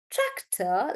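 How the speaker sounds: tractor slow, weight on first syllable TRAC; stress on TRAC. Shown as a demonstration. Teacher showing like that, tractor stressed on TRAC. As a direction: stretch TRAC, ease off the end of tractor. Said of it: "like that".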